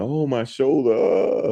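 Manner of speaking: very high-pitched, pained screaming cry. Retelling how he screamed after falling on his shoulder: imitating someone screaming. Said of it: "he started screaming".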